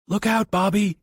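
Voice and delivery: calling out. Acted. Johnny warns Bobby before thrusting the shovel, loud. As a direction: call the warning. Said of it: "he called".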